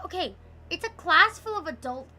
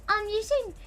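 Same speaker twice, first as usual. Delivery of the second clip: mocking classmate; 4 semitones higher, 3 dB quieter, faster than usual. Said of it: "she's like".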